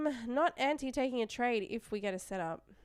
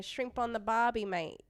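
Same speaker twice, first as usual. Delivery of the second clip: lightly put-on Gold Coast Aussie accent; thick Gold Coast accent. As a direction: play up the Queensland Australian accent a touch. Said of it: "Like a thick Gold Coast accent".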